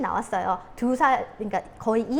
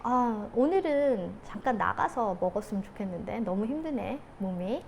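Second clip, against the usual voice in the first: weary suggestion; 4 dB quieter than usual. Acted. Tired wife suggests eating out.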